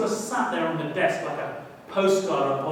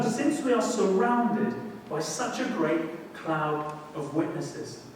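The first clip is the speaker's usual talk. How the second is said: slow scripture reading again; slower than usual. Shown as a demonstration. The preacher rereads the verse to the congregation. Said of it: "verse read again".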